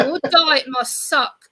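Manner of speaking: mild imitated sneer from the driver; mocking delivery man. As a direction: drag out the insult. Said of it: "He goes".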